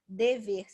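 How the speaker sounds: "dever" split into de-ver; syllable by syllable. Shown as a demonstration. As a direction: say "dever" slowly in two separate syllables.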